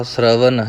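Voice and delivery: ਸ਼ਰਵਨ ending in a plain dental n. Shown as a demonstration. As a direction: finish ਸ਼ਰਵਨ with the tongue at the teeth. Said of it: "ਇਹ ਵੀ ਨੰਨੇ ਦੇ ਨਾਲ ਹੈ". (ਸ਼ਰਵਨ ਨੂੰ ਨੰਨੇ ਨਾਲ)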